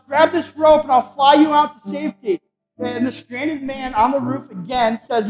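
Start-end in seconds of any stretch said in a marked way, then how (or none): 0.1-2.4 high, loud acted rescue shout. Helicopter pilot leans out to the stranded man, urgent mock shout. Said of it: "he shouts".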